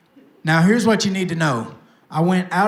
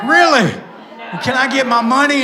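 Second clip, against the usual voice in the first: higher, louder retold "Really?" pushing for the cash; mock surprise; 5 semitones higher, 4 dB louder than usual. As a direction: act impatient surprise, then demand the money. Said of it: "And I'm like".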